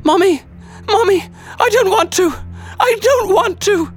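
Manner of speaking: put-on screaming boy. A narrator's reading. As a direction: scream for mommy as a terrified little boy. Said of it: "I heard the boy screaming".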